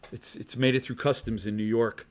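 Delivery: chuckling through the line; laughing. Real, not acted. Collector laughing about his package in customs, amused. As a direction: laugh it out softly.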